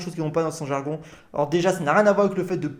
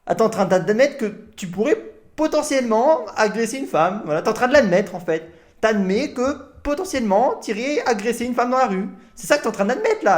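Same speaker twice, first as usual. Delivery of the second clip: outraged disbelief; 3 semitones higher, 4 dB louder than usual. Real, not acted. Outraged at his admission.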